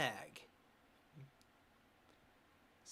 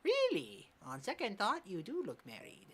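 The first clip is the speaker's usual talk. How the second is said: put-on higher East Asian accent for the old coach; 4 semitones higher than usual. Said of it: "don't cancel me for this accent".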